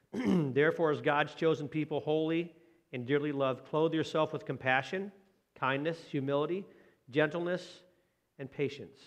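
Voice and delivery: measured, slowed reading of scripture. Acted. Pastor reading Colossians to his congregation, measured scripture reading. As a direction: read the verse to the church with care.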